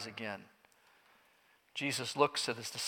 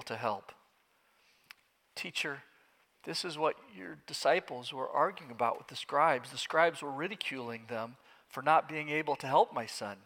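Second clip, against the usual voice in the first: defeated father, quiet; 6 dB quieter than usual. Acted. Father, weary and broken.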